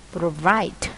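"provide" stressed on the second syllable. Shown as a demonstration. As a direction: say "provide" with the weight on -VIDE. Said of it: "nhấn âm hai".

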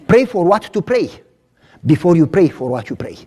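slowed down, each word placed; slow it down so they get it. Shown as a demonstration. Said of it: "I'm gonna say it slow now".

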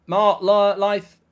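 loud, scolding call to Mark; scolding a chatter in disbelief; exasperated shout. Real, not acted. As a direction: bark the name like a warning. Telling off chatter.

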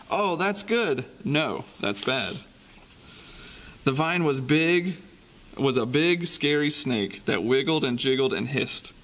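lively storybook reading with sound effects; reading to children. Acted. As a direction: read it like a bedtime picture book for kids. Reading picture book to children.

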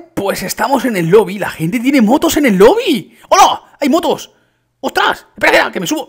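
loud, high excited exclamations; thrilled amazement. Real, not acted. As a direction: cry out in delight, pitch soaring. Thrilled at motorbikes in lobby.

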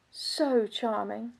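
soft, slow, drawn out; lingering recollection. Acted. Countess remembering her husband at first, soft and lingering. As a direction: linger softly over the memory.

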